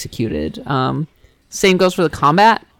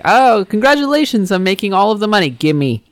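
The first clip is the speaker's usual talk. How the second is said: raised-pitch, quick mock racketeer greeting; mock friendly threat; 5 semitones higher, 3 dB louder than usual. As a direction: play a grinning shakedown boss. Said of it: "it's more like the mafia".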